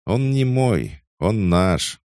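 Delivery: high, amused chuckle in voice; smirking tsar. A narrator's reading. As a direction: say it with a grin. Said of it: "усмехнулся царь".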